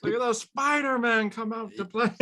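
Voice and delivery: high-pitched villain impression; Willem Dafoe Goblin. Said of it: "Willem Dafoe Goblin".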